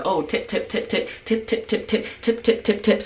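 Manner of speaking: high, hushed, pleading "tip, tip, tip"; begging for tips. Retold or imitated. Tourist hustlers pestering a visitor for tips, in a high, hushed, pleading voice. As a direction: mimic the locals nagging for tips. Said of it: "they're like".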